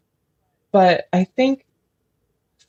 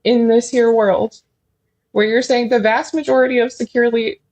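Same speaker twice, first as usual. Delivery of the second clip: incredulous outrage; 5 semitones higher, 4 dB louder than usual. Retold or imitated. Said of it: "and I'm like".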